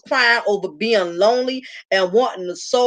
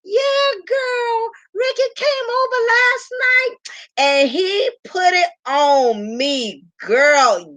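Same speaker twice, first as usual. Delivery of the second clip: high giggly gossip, much higher; giggling like a schoolgirl; 12 semitones higher, slower than usual. Retold or imitated. Mocking a friend who giggles about her man, high and giggly. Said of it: "laughing like a little high school girl".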